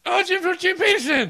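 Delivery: high, loud mock posh British exclamation; hammed-up upper-class British accent. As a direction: gasp it out like a posh English toff. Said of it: "upstanding British accent".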